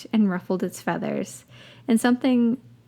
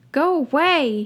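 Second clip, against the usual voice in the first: sharp shout, higher pitch; yelling; 6 semitones higher, 4 dB louder than usual. A narrator's reading. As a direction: throw it at the door. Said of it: "he yelled".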